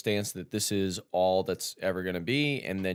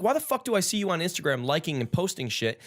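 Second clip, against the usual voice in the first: retold angry rebuke; 5 semitones higher, faster than usual. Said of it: "I was like".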